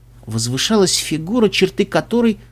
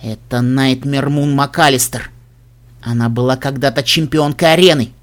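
through gritted teeth; 3 semitones lower than usual. Acted. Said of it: "процедила сквозь зубы".

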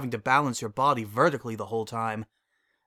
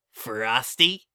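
put-on young colt voice; 4 dB louder than usual. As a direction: play an eager little colt. Child character voice.

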